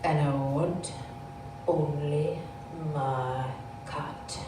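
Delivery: low, slow mock-sinister child; halting, chilling delivery, phrase by phrase; menacing little boy. Four-year-old telling his mother his dark wish, mock-menacing.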